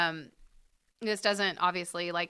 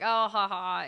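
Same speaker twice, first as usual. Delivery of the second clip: fake chuckle; 5 dB louder than usual. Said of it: "kind of chuckle".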